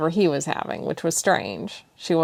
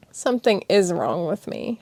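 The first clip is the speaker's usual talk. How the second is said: sniffling. Acted. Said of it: "she sniffed".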